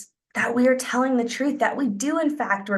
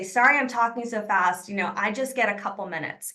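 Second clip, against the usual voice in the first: apologetic. Shown as a demonstration. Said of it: "you wanna say".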